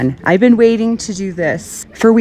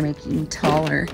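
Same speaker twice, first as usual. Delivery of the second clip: light Utah accent on "make him taller"; 5 semitones lower, 7 dB quieter than usual. Shown as a demonstration. Papa talking about the display, light Utah accent. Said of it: "That's how they say it here in Utah".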